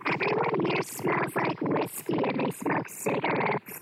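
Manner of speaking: hushed whisper, hiding from others; whispering while hiding. Real, not acted. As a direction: whisper so nobody hears you. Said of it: "I'm hiding in the bathroom".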